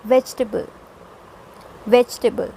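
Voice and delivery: vegetable as VEJ-tuh-bul; vegetable squeezed into three syllables; three-syllable pronunciation. Shown as a demonstration. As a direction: stress "vej" and drop the middle vowel of vegetable. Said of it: "how you will pronounce the word".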